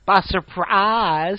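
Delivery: drawn-out, put-on 'surprise'; first voice take. Shown as a demonstration. Showing off a silly voice to the co-host, drawn-out put-on voice. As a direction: stretch it slowly in a put-on voice. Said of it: "The first one I did there".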